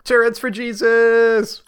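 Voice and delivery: rally the troops for a holy war; hammed-up crusader shout; mock battle cry.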